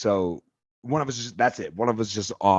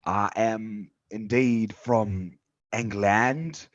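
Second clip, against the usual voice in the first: put-on slow, proud English accent, rising on King's Land; British accent; 2 semitones higher, slower than usual. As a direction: announce England with pomp in a British accent. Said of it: "You sound like a dirty redcoat".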